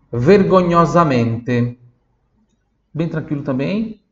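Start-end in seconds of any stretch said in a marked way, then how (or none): 0.1-1.8 slow model word. Shown as a demonstration. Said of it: "Próxima palavra".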